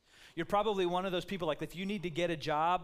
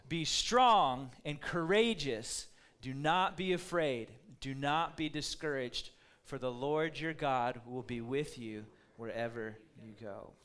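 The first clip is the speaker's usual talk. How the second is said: with emphasis; 2 semitones lower than usual. Shown as a demonstration. Pastor leads congregation reading with emphasis. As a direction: read it out with conviction. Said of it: "say it with some emphasis".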